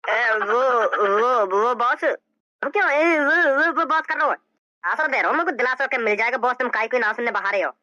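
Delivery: low, halting henchman, tripping over words; a low, nervous henchman stammering excuses to his boss. Acted. Henchman stammers before angry boss.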